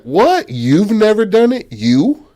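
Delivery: loud, high incredulous questions; mock disbelief. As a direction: act out astonished disbelief. Group's disbelief at her answer.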